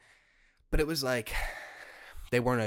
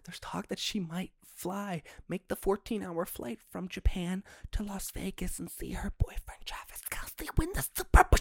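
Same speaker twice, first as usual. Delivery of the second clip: conspiratorial whisper; 9 semitones higher than usual. Real, not acted. Fan leaking the rumour she'll fly to Vegas, secretive whisper. Gossipy secret about Swift flying.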